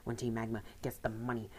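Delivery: lightly voiced scheming villain boss; greedy, gloating, a hint of menace; a touch of a smug crime boss; villain leader. Reads Maxie's villain dialogue.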